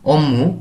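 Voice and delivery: অম্মু with a doubled m; অম্মু, nasal m in place of b; b sounded as m. Shown as a demonstration. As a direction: turn the final b into m in অম্মু. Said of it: "ময়ের মতো উচ্চারণ করি".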